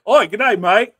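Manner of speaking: loud mock Aussie "Oi, good day, mate"; over-the-top Australian greeting, shouted; stereotypical Australian. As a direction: ham up a cartoon Australian accent. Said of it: "when I hear Australian and I think Australian".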